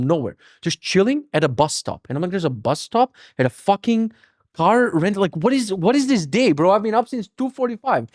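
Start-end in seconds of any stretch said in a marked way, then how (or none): 2.3-8.1 can't believe this morning, bro; rising, disbelieving rant; exasperated disbelief. Retold or imitated. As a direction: voice climbing higher in incredulous outrage. Exasperated at odd bus stop.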